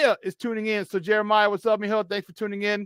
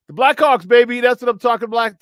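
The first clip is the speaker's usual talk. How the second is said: excited cheer; 5 semitones higher, 8 dB louder than usual. Real, not acted. Celebrating the Blackhawks win.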